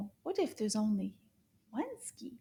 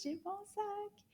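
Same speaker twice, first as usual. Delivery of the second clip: suspense whisper; 8 semitones higher, 8 dB quieter than usual. Acted. Building suspense with bag.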